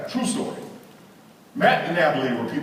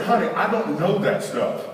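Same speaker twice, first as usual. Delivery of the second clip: higher, mildly exasperated husband; mild irritation; 4 semitones higher than usual. Acted. Husband to questioning wife, mildly irritated. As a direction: push back with a touch of irritation. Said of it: "Now I'm getting irritated".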